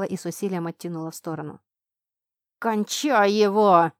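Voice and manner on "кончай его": slow, loud, drawn-out hissed command; hissed order. A narrator's reading. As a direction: spit out the order to kill. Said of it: "прошипел Дмитрий директору".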